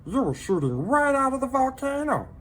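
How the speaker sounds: high little creature voice, gently pitying; a tiny pet breaking hard news kindly; sympathetic salamander voice. A narrator's reading. Minton consoling lonely Hector, high sympathetic voice. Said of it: "Minton told him".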